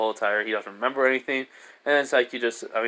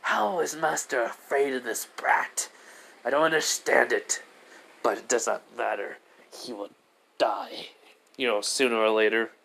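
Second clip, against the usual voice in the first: menacing inner thought; 3 dB quieter than usual. Retold or imitated. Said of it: "thinking right now".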